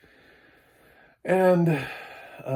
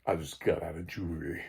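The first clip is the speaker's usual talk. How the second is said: low Sean voice. Retold or imitated. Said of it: "I got the lowest voice".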